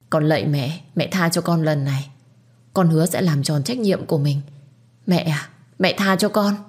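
a daughter-in-law on her knees, pleading gently; mild pleading. Acted. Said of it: "liền quỳ xuống và van xin". (van xin nhẹ nhàng)

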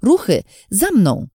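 high, loud rallying call; urgent command. A narrator's reading. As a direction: call the troops to follow. Someone orders the others to move.

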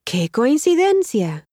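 slow, careful model line for learners; slow model answer. Shown as a demonstration. Tutor models the reply slowly for the learner. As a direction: lay it out slowly so students can copy it. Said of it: "Say your line after the English prompt".

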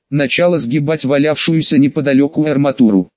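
ordinary delivery, nothing marked

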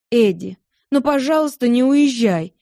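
умоляюще, выше обычного; pleading wife. Acted. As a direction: beg him not to leave, voice lifting. Wife begs husband to stay.

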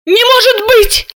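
high gasped disbelief; shocked gasp. A narrator's reading. Sister reading the notes, gasping in high disbelief. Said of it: "охнула Серафима".

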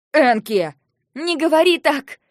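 very loud rebuke; sharp angry shout. Acted. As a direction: shout down the insult. Shouting match peaks. (резкий гневный окрик)

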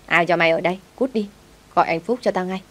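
mildly tart dismissal; sour, shrewish tone. Acted. Lucy wakes and orders the maid out, mildly shrewish. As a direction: order her out with a touch of venom. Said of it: "giọng điệu chua ngoa lắm".

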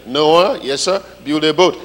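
loud stern command; commanding God. Retold or imitated. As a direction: order it loudly.

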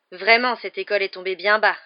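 loud, disdainful remark. A narrator's reading. Malfoy running down the school, loudly. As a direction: say it for everyone to hear. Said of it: "d'une voix forte".

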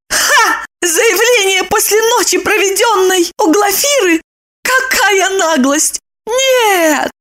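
scornful woman spitting out her outrage; Lipochka, furious. A narrator's reading. Lipochka furiously mocks Roman's claim. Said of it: "Липочка взбесилась".

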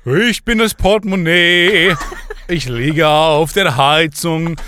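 put-on laughing through an American accent; American accent in German. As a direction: speak German like an American singer. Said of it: "Ich habe einen strangen amerikanischen Akzent".

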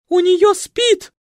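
very high, loud slow panicked shriek. Acted. Маменька в панике визжит о болезни — пронзительный визг. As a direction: shriek in terror of infection. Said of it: "заверещала маменька".

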